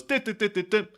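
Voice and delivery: sung staccato dit notes, high; music cue imitation. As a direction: hum a short music sting with dits. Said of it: "you get a little music cue goes".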